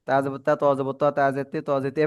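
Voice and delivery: chanted Quran letter drill; recitation demo. Shown as a demonstration. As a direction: model the drill for the class. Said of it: "এভাবে।".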